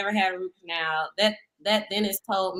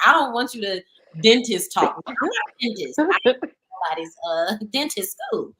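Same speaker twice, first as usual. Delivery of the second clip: mock complaint; 3 semitones higher, 4 dB louder than usual. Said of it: "I'm like".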